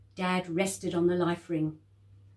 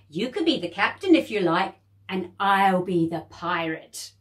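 put-on coaxing child; 6 dB louder than usual. Jade coaxing her sister.

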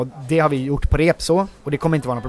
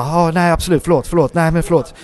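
jittery; 3 semitones higher than usual. Retold or imitated. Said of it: "helt hispig och bara".

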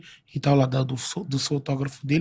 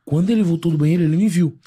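normal talking voice

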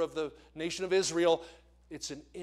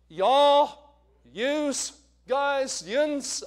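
much higher and louder, each word punched; emphatic list; 11 semitones higher, 12 dB louder, much slower than usual. Shown as a demonstration. Preacher rattles the plurals off to the congregation, loud and high. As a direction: belt out the list for a laugh.

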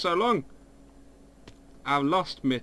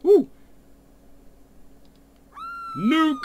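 shouting; 5 dB louder than usual. Real, not acted. Calling out in game.

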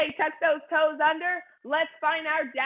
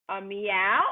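cat meow; 5 semitones lower than usual. Shown as a demonstration. Teacher showing kids the cat sound. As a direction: mew like a kitten for the class. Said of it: "what sound does a cat make?".

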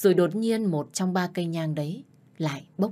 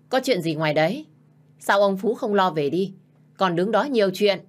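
annoyed call from inside; 3 semitones higher, 4 dB louder than usual. Acted. Stepmother calls out from inside.

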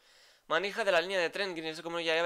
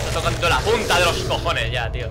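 raging shout, higher and louder; furious yelling; 3 semitones higher, 9 dB louder than usual. Real, not acted. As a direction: scream at the enemy in real fury. Repeatedly hit by an enemy.

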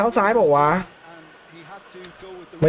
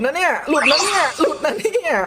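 high, stretched-out repeated warning; mounting panic; 8 semitones higher than usual. Real, not acted. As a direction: draw it out in rising alarm. Panicking as opponent breaks through. (ร้องลุ้นเสียงสูงลากยาวอย่างตื่นตระหนก)

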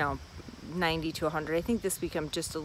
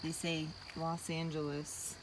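words wobble while off balance; losing balance; 8 dB quieter than usual. Real, not acted. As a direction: say it while steadying yourself. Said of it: "Sorry, I lost my balance".

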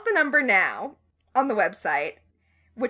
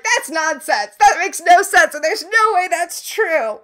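scoffing dismissal; 6 semitones higher, 6 dB louder than usual. Retold or imitated. Henry dismissing, voiced.

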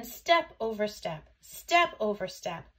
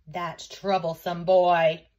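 loud, slow motherly scolding; exasperated mother; 3 semitones lower, 7 dB louder, slower than usual. A narrator's reading. Mother answering about her troublesome son, exasperated. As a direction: grumble loudly, stretching the words. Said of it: "answered the mother".

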